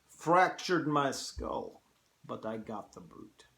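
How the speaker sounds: a hint of a Russian general; General Zaroff. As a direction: attempt a Russian accent, recounting a hunt. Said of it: "hard to do a Russian accent".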